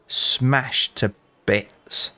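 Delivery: very slow, relishing every word; slow gloat. Real, not acted. Telling viewers the bully's glass broke, slow gleeful gloat.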